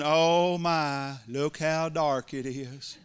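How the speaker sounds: half-hearted whiny lament; mock bemoaning. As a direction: pretend to fret over the dark. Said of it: "You never hear God saying".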